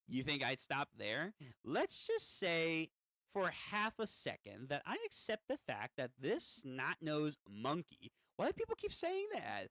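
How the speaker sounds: lightly voiced scornful gremlin; a hint of a sneering imp; gremlin demon, defiant. Demon scorning the kid who acquired him, mild gremlin voice.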